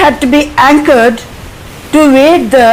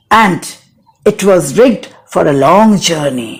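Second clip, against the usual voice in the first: slow, measured poetry reading with falling line endings; poem recitation. Acted. Teacher reciting Larkin's poem before explaining it, measured recitation. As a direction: recite verse line by line, pausing after each.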